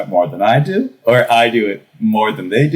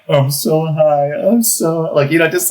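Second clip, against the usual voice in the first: giggly high; 7 semitones higher than usual. Retold or imitated. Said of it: "giggling to my friends".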